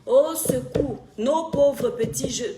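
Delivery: loud, slow, drawn-out appeal; cry for help. Real, not acted. Streamer pleading for poor young people, loud slow appeal. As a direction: call for help loudly, stretching each word. Crying for help over African youth.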